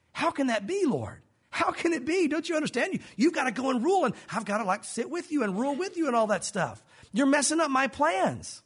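high-pitched, pleading disciple; exasperated protest. Acted. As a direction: protest as if the plan is being ruined. Acting the disciples' baffled protest.

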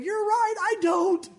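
high, amused confession; cheeky, laughing; laughing admission. Retold or imitated. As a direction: own it with a laugh. Pastor's blunt reply, laughing.

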